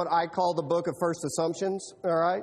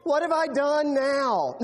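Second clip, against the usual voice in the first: slow, exasperated protest; mock exasperation; exasperated David; 4 semitones higher, 3 dB louder, slower than usual. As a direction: sigh out the protest. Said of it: "And David said".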